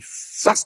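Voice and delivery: quick hushed swish of a blow; short, airy smack noise; imitated whack. Shown as a demonstration. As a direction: voice the sound of wheat hitting stone. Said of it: "y se les daba así".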